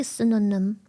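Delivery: "synonym" with the y as a rounded German U. Shown as a demonstration. German speaker showing how they say it, ü in "synonym". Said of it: "like with an U".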